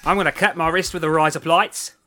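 put-on Aussie twang; Australian accent. Joking with the new razor blades trick, Australian accent. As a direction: use the trick words in a mock-Australian sentence. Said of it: "You just said razor blades in Australia".

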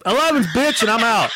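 high-pitched parting shot; retold angry exit. Mad customer storming out on worker, retold anger. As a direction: toss it off high and indignant. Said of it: "I was mad".

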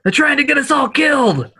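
character voice. Acted. Character voices continue conversation.

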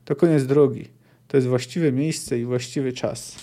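measured reading of a dark fantasy passage; story narration. Acted. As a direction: read it like an audiobook, steady and grave. Reads a novel passage aloud.

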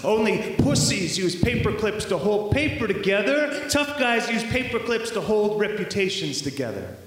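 high, insistent spoken-word jab; tough-guy taunt. Acted. Poet voices the tough guys' creed, taunting. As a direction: drive it out high, in a rhythmic sneer.

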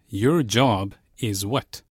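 slow, word by word; slow literal gloss. Shown as a demonstration. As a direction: spell out each word slowly. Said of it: "which literally meant".

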